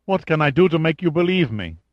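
high, desperate plea; stricken. A narrator's reading. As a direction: beg to be believed. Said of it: "Varenne looked stricken".

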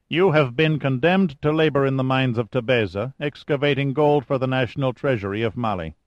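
calm, self-assured commander introducing himself; lightly voiced cool chief engineer. O'Banion voiced by narrator.

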